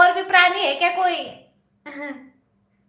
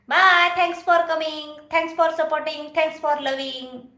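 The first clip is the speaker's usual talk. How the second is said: very slow, stretched, sing-song thanks; drawn-out farewell; much slower than usual. Pretend. Slowly thanking live viewers in sing-song. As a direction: stretch every word like a song.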